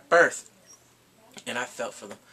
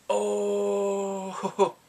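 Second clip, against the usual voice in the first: tag; 4 semitones higher than usual. Retold or imitated. Reacting to retold slap.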